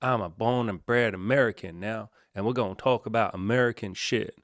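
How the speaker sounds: put-on American accent, casual. Host opens his vlog in a put-on American accent. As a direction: slip into a Ted Lasso style American accent. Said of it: "started this podcast with an American accent".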